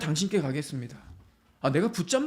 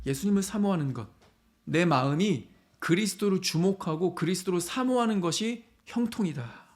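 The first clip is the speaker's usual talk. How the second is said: ordinary delivery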